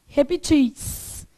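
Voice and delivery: "repetis" drawn out, stressed on the final -tis; stress on final syllable. Shown as a demonstration. Teacher giving the plural to the class, final-syllable stress. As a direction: slowly sound out "repetis", landing on -tis. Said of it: "Que pode ser".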